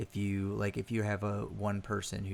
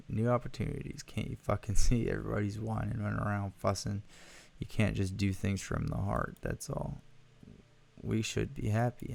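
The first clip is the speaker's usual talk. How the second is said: pushy zealot. Acted. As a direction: sell the celebration like a manic preacher. Pushy cheerful visitor speaks.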